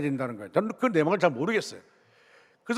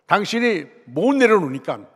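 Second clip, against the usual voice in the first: forceful warning. Retold or imitated. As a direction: press hard on the warning like a stern pastor. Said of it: "제가 강하게, 강하게 말씀을 전했습니다". (강하게 경고하듯)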